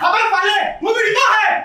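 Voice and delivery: angry outburst. Acted. Son yelling at the crew that she is his mother. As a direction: shout them down in anger.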